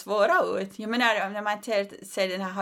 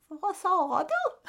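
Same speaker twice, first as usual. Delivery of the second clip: much higher, slow puzzled mom; mom not hearing; 10 semitones higher, much slower than usual. Retold or imitated. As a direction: drag it out like she heard nothing. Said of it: "sen hon bara". (långsam förvirrad mamma)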